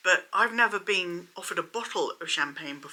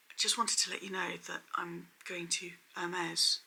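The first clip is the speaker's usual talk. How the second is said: hushed, heavy knowing hint; bad acting; 10 dB quieter than usual. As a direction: deliver it like a secret tip-off. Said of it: "she basically delivered it like this".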